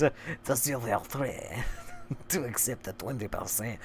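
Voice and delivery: soft, measured put-on reading voice; hushed mock-formal letter reading; letter read aloud. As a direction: read the letter out in character, fairly low-key.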